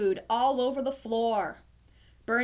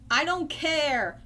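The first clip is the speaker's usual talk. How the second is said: high, slow protest; upset cry; 4 semitones higher, slower than usual. Acted. Ernie rejects Bert's excuse for the kitten, crying out crossly. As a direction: refuse to listen, drawing it out high. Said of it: "cried Ernie".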